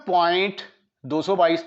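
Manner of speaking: "दो सौ बाईस" read as one whole number; wrong decimal reading. Shown as a demonstration. Teacher showing students a mistake, "दो सौ बाईस" as one number. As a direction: read "दो सौ बाईस" as a single number after the point. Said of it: "तो गलत हो जाएगा".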